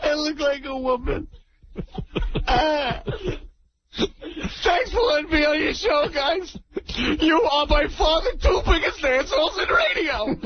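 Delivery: a hammed-up blubbering boss, lightly voiced; radio caller doing a weepy team owner, mock sobbing; mock weepy Steinbrenner. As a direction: play the tearful team owner, half laughing. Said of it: "We got Corky Steinbrenner".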